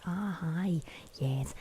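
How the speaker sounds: put-on playful whispered German accent; bad German accent. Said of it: "I can't even do a German accent".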